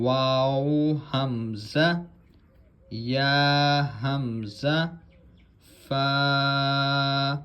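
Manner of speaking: slow, drawn-out letter drill; measured Arabic letter recitation; Qaida recitation. Shown as a demonstration. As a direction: recite each letter clearly like a Quran teacher.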